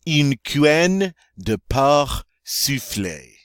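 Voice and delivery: "porc" ending on the R, no K sound; slow, careful French with "porc" said like "por"; silent C in porc. Shown as a demonstration. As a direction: leave the final C of "porc" silent. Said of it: "Oh, much better".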